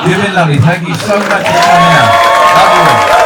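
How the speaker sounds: comic waving goodbye, projecting; loud sign-off. Real, not acted. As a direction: call it out over the applause. Thanking crowd at show's end.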